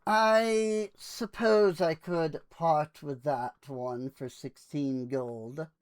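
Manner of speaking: lightly voiced salesman, slow and drawn out; a hint of a resigned merchant, measured pace; sighing reluctant salesman. Salesman pondering the party's offer for the yellow one, sighing reluctance. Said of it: "and then sighs and says".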